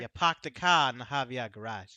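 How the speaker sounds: put-on a light Boston accent, dropped R's again. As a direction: drop every R like a Bostonian. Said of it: "Do it again?".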